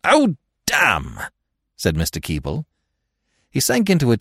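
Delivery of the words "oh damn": high exasperated curse. Acted. Husband left alone without his loan, exasperated. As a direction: burst out in frustration. Keble frustrated as lord leaves.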